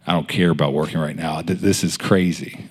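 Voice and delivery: low, soft, heavy-hearted muttering; grieved. Retold or imitated. Friend hiding in work bathroom, grieved. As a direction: say it low, troubled and giving up. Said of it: "I was just grieved".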